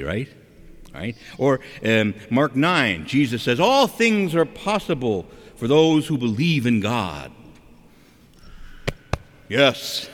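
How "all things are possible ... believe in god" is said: higher, slow lofty recitation; recited slogan. Acted. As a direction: draw out the verse like a pious slogan. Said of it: "we talk like this".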